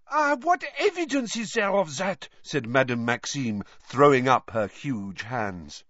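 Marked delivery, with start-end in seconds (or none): 0.1-2.3 much higher, challenging voice, demanding proof; a proud, higher voice that scoffs at the claim; haughty headmistress. A narrator's reading. Madame Maxime challenges Moody.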